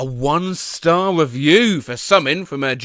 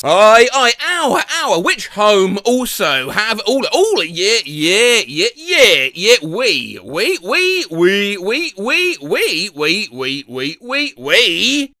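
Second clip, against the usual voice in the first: a hammed-up, badly faked Dutch accent; mock Dutch ramble, stuttering on "we, we"; slower than usual. Mocking Dutch speakers' language in a faked Dutch accent. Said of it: "I can't do a Dutch accent at all".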